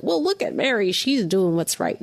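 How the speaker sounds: a light touch of a scolding comparison; understated critical tone; mildly critical. Shown as a demonstration. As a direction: point at Mary with mild reproach. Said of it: "Not in a critical way".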